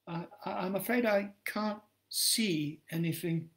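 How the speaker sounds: high and soft, timid asking; meek frail voice. Acted. Blinded woman softly asking a stranger for help, high and timid. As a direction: ask as if barely daring.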